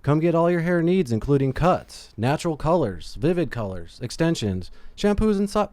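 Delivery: upbeat podcast sponsor read. Acted. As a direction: read out the sponsor plug with a lifted pitch. Reads the sponsor's ad.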